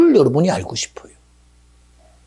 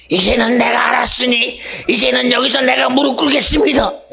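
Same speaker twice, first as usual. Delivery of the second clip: shouted surrender; 5 semitones higher, 4 dB louder than usual. Acted. Voicing a surrendering king.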